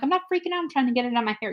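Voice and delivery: high-pitched mock indignation; defensive protest. Telling the bee guy she isn't panicking, defensive protest.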